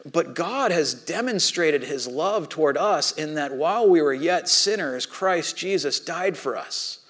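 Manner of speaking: slow, solemn quoting of the verse; scripture reading. Acted. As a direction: let each phrase land slowly.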